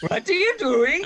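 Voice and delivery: very high, loud mocking yell; squeaky mock shout. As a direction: squeal it back like a cartoon guard. Mimicking the shouting guard.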